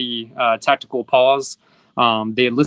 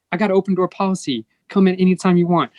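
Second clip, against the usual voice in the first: mock preaching boss; 5 semitones higher, faster than usual. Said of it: "to preach".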